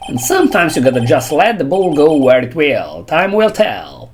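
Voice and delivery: attempted Texas cowboy accent; lightly put-on Texas accent with swooping tune. Cowboy officer advising his partner, attempted Texas accent. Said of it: "um, the accent".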